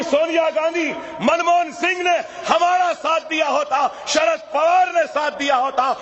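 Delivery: a rising roar of accusation; building shout. Real, not acted. Leader listing politicians who never helped, building to a shout. Crowd-rousing rhetorical climax.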